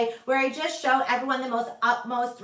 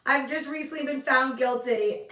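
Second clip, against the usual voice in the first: sag into a pretend sad admission; mock dejected. Host playing the guilty verdict to viewers, mock dejected. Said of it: "I'm just really upset".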